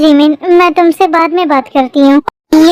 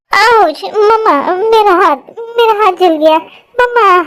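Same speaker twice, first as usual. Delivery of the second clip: higher, tearful cries for mommy; crying in pain; 4 semitones higher than usual. Acted. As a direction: whimper after burning your hand. Girl burns hand, cries out.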